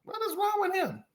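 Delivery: high, soft mock bewilderment; hushed disbelief. Artist reacting to a controlling boss, hushed disbelief. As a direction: gasp it quietly in disbelief. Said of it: "And you're like".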